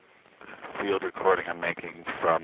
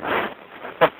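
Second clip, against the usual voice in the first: laughing. Real, not acted. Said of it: "just laughing".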